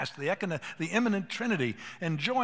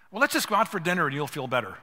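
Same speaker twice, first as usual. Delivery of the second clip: louder, brisk fix-it tone; typical husband; 7 dB louder, faster than usual. Retold or imitated. Pastor mocking a husband who fixes instead of listening, loud and brisk. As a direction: brush it off with a quick fix. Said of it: "a typical man's response is what?".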